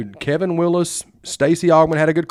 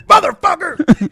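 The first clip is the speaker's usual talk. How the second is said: high, loud, slow furious yell; angry curse; 13 semitones higher, 7 dB louder, slower than usual. Retold or imitated. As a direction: yell it in frustration. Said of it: "we'd be like".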